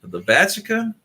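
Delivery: high, loud disbelieving question; shocked echo. Real, not acted. Stranger hearing about petrol bombs, echoing in shock. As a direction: repeat it in total disbelief. Stunned echo of outrageous claim.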